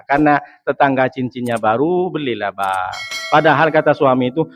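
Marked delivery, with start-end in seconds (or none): none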